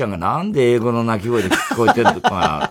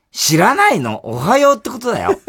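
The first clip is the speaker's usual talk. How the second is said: schoolgirl voice; 7 semitones higher, 5 dB louder than usual. Acted. Schoolgirl explains slang.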